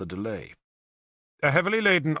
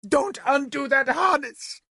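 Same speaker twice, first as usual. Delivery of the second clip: high, slow commanding shout; shouting at drivers; 13 semitones higher than usual. A narrator's reading. Princess shouts at the drivers, commanding. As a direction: spell out the order. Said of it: "she shouted at the drivers".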